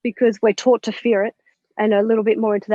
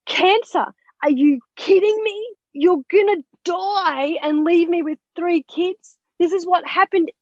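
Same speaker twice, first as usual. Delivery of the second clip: incredulous outrage; 5 semitones higher than usual. Retold or imitated. Retold inner outcry at cancer.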